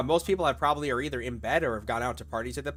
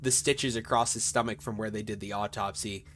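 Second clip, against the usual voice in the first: measured, deliberate scene-setting; game master narration; 3 semitones lower, slower than usual. Acted. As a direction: lay out the horror detail by detail.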